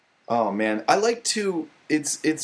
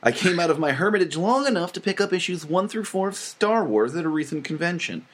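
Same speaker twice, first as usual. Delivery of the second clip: nerdy voice; 3 semitones higher than usual. Pretend. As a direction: read it like an indignant nerd. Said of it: "You have to read it in a nerdy voice".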